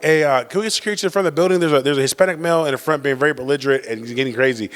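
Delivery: lightly imitated official radio call, quick at first; walkie-talkie caller. Student council member calling security by walkie-talkie, mock-official report. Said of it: "she had a walkie-talkie".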